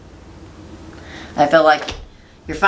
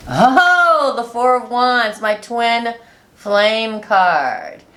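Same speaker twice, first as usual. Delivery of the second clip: excited; 7 semitones higher, much slower than usual. Real, not acted. Delighted at drawn card.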